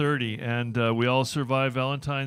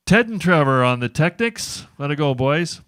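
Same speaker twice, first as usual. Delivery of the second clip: calling out; 3 semitones higher, 6 dB louder than usual. Real, not acted. Host calls out to tech crew.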